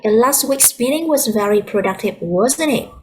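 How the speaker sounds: rising tune on "wasn't it?"; glide-up intonation on the tag. Shown as a demonstration. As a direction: lift the pitch on "wasn't it?" as a question. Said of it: "that is the glide up intonation".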